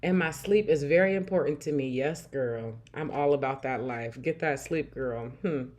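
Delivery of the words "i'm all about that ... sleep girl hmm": ordinary delivery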